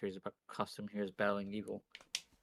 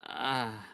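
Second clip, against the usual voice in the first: wheezing groan. Acted. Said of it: "a low wheezing groan".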